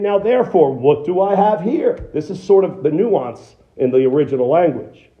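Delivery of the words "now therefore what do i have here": a touch of sarcasm, lightly voiced as God; sarcastic. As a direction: ask it with mock wonder, a bit higher. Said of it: "God is sort of sarcastically saying this".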